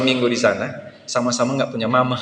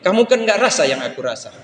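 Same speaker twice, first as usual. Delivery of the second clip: put-on hurt angry child; 3 semitones higher than usual. Hurt child confronts friends.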